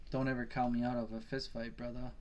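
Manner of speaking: lightly imitated Australian accent; a hint of an Australian fighter's accent. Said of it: "in his Australian accent".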